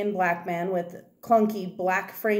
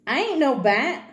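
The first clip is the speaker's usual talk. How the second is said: put-on higher, indignant little-girl protest; 6 semitones higher, 3 dB louder than usual. Girl insists to the man she's no bat, indignant and higher. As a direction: push back like a kid who's been insulted. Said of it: "she protests".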